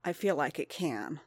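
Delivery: quietly pushed through gritted teeth; tight-jawed, holding back pain. Acted. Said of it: "through gritted teeth".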